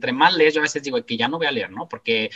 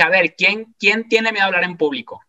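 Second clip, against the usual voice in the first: raised, higher voice to a big audience; calling out to the crowd; 5 semitones higher, 3 dB louder than usual. Retold or imitated. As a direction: call the question out across a packed hall. Asking a crowd of thousands.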